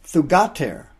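"thugater" said THOO-gah-tehr, stress on the first syllable; "thugater" carefully pronounced Greek; Greek word thugater. Shown as a demonstration. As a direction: sound out "thugater" with a clear th and a hard g. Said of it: "The Greek word for daughter there is".

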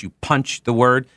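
emphatic hit on "punch" as a demonstration; "punch" stressed to show broadcast emphasis. Shown as a demonstration. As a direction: punch out the word "punch". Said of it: "just like I just did there with the word punch".

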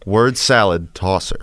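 "Word salad tosser" slowly, each word distinct; slow, measured correction of "Word salad tosser"; corrected emphasis. Shown as a demonstration. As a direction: demonstrate "Word salad tosser" with careful phrasing. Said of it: "putting the emphasis on the wrong word".

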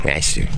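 local-style Rochester with a short "a"; local Rochester pronunciation. Shown as a demonstration. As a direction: squash Rochester into two syllables, "RASH-ter". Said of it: "we like to say things like Rochester".

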